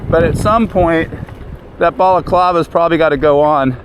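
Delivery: muffled inside a helmet, wind noise; talking from inside a riding helmet. Real, not acted. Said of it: "a lot of wind noise in the helmet".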